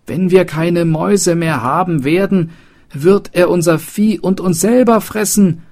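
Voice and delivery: high, loud panicked cry; beside themselves. Acted. Townsfolk panic about the beast, crying out beside themselves. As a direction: scream it in panic. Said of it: "riefen sie außer sich".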